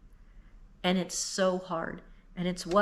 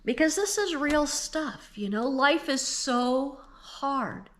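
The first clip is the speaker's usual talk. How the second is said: crying; 5 semitones higher than usual. Real, not acted. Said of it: "I'm crying".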